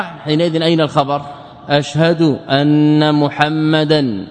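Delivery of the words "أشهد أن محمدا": slow, drawn out; slow demo. Shown as a demonstration. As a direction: spell it out slowly for students. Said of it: "لو نصب رسولا".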